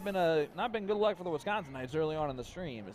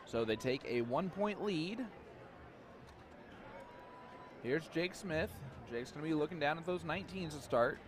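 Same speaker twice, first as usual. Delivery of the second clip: radio play-by-play; 3 dB quieter than usual. Acted. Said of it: "do some, uh, radio play-by-play".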